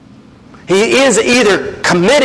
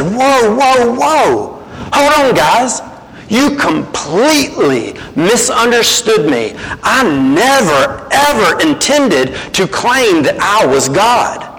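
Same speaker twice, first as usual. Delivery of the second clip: playfully back-pedal, hands up; correcting Jesus; 2 semitones higher, slower than usual. Pretend. Hypothetical Jesus calming offended scribes, mild mock alarm. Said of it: "would have said".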